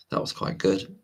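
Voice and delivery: words stretched through a yawn. Real, not acted. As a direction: talk mid-yawn, sleepy. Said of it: "Sorry for yawning".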